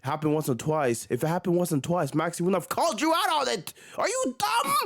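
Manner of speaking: lightly voiced mocking impression; a hint of a mock tough guy; mocking fake Kobe. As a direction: read the quote like a wannabe star. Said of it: "fake Kobe".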